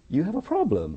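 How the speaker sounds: high-pitched challenge down the phone; acted high, punchy announcement; blunt confrontation. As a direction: tell the boss outright, pitched well up. Acted phone call to boss.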